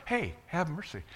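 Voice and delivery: soft, casual plea with no urgency; half-hearted call. Shown as a demonstration. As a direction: say it meekly, barely trying to be heard. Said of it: "they didn't just do it".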